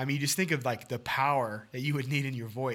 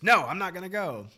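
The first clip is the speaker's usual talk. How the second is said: higher, louder pouty refusal; stubborn kid; 5 semitones higher, 5 dB louder than usual. Acted. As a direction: play the sulking little kid. Child refusing soccer practice.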